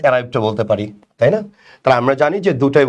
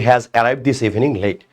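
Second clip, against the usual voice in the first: slow reading; 2 semitones lower, much slower than usual. Shown as a demonstration. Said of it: "আমরা যদি বলি".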